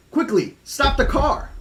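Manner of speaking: high, slow urgent cry to stop; high frightened kid shouting. Acted. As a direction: yell it like a scared kid. Tim shouts from the car.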